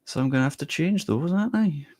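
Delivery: put-on Scottish slipping into Welsh lilt, rising high; accidentally Welsh accent. Streamer attempting Scottish for chat, slipping into Welsh. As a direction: let the accent drift a little Welsh. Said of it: "That was a little bit Welsh by accident".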